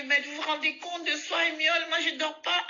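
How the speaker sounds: put-on high, indignant old woman; complaining old lady. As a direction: whine it like an angry old lady.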